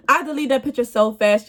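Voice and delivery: said through real laughter; laughing. Real, not acted. Laughing at herself over deleting the picture. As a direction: laugh as you repeat it. Repeats the line while laughing.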